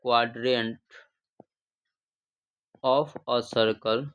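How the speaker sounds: "quadrant of a circle" stretched out with long gaps; each word spaced out at writing pace; slow dictation. Shown as a demonstration. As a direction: dictate slowly for the class to write down. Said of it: "तो लिखेंगे बाबू".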